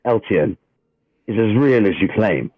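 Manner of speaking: steady dramatic scene-setting read; game master narration. A narrator's reading. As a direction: read the opening like a storyteller at the table.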